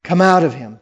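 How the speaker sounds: loud commanding call; crying out. Acted. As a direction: call the spirit out. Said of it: "Jesus cries out".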